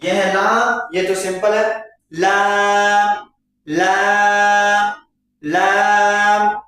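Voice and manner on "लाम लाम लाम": "लाम" drawn out very slowly and clearly; slow letter drill. Shown as a demonstration. Teacher drills students: slow clear "लाम". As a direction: stretch out "लाम" evenly. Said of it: "इस तरीके से".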